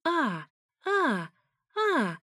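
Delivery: series of high "ah" cries; near-screaming moans. A narrator's reading. Ex cries out behind the wall to annoy him, high moans. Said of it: "практически кричала Тая".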